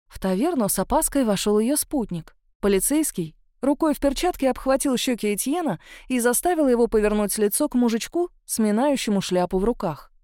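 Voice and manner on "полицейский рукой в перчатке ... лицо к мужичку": ordinary delivery, nothing marked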